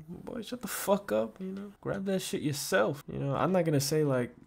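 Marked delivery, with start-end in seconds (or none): 0.1-3.0 annoyed parent. Pretend. Parent telling the gamer kid to get the camera himself, mock annoyed. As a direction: play the fed-up parent brushing the kid off. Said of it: "Or like".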